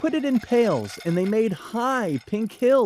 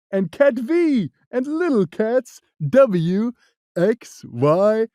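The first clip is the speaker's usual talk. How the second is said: the cat listing; 4 dB louder than usual. Acted. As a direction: rattle off the cats proudly. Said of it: "said the cat".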